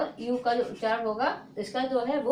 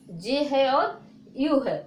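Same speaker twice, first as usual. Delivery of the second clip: slow spelling; 3 dB louder, much slower than usual. Shown as a demonstration. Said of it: "teacher naming letters".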